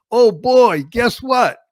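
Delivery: put-on the boy thrilled at the fresh snow; excited kid. Boy planning to play in the snow, mildly excited. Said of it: "it was".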